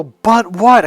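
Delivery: a loud, high, pushing "But what?"; challenging demand. Retold or imitated. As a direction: cut him off hard. Arguing with friend.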